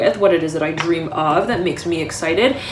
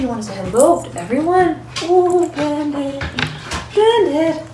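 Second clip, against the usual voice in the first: high coaxing pet voice, much higher; pet talk; 9 semitones higher than usual. Real, not acted. Owner coaxing Bandit to say hello to viewers, high pet talk. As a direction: sweet-talk the dog over.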